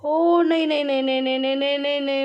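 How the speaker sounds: loud high cry tumbling into rapid repeats; alarmed gamer's protest; panicked refusal. Real, not acted. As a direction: blurt it in a string, losing the fight. Player getting beaten in the game.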